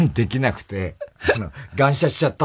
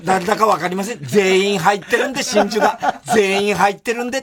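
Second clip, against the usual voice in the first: imitated insistence; 5 semitones higher than usual. Retold guest's over-insistent excuse.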